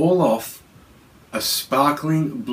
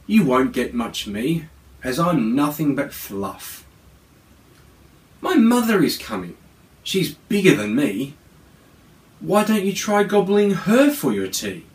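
Little Gruff; 4 semitones higher than usual. Acted. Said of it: "said that brave Little Gruff".

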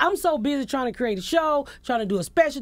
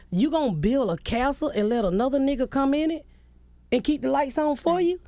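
heated tirade; 4 semitones higher than usual. Retold or imitated. Retold tirade at husband.

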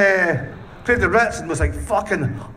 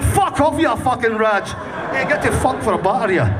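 retold shout; 4 semitones higher than usual. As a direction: snap it off at the fan with a shout. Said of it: "I'm like".

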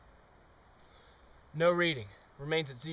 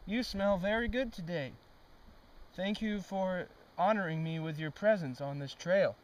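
mock polite flattery; 2 semitones higher than usual. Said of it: "Let's try saying some nice words to it".

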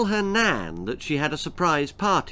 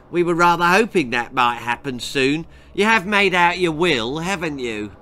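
put-on callous girl voice; 4 semitones higher, 5 dB louder than usual. Girl taunts Nan.

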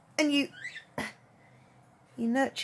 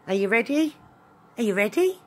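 eager; 4 dB louder, faster than usual. Real, not acted. Rousing the dogs.

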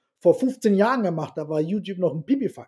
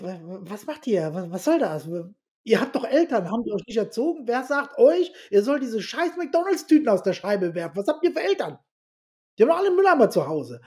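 mock outraged rant; 3 semitones higher than usual. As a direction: rant at people who throw rubbish from cars, pitched up. Ranting at litterers in town. (empörtes Schimpfen über Müllwerfer in der Stadt, höher und schneller)

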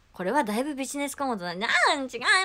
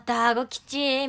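drawn out; 2 semitones higher, 6 dB louder, much slower than usual. Shown as a demonstration. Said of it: "みたいな。".

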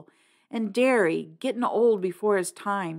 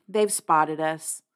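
resigned; slower than usual. Acted. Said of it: "Cherry said resignedly".

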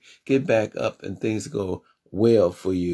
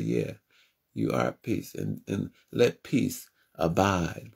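much lower, softer voice answering from above; answering divine voice; 4 semitones lower, 5 dB quieter, slower than usual. Retold or imitated. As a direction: answer him like a deep calm presence. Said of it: "things just fell over me and said".

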